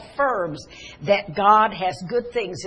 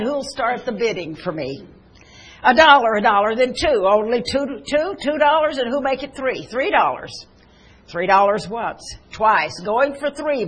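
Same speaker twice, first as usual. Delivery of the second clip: rising, louder bid calls; auctioneer calling bids; 2 semitones higher, 4 dB louder than usual. Acted. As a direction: hawk the old violin to the room.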